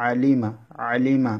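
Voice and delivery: আলিমা starting with a mid-throat Arabic ain. Shown as a demonstration. Teacher showing where ain is articulated, mid-throat ain. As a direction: sound the first আ of আলিমা from the middle of the throat. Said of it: "আইন কণ্ঠ মাঝখান থেকে উচ্চারণ করবেন".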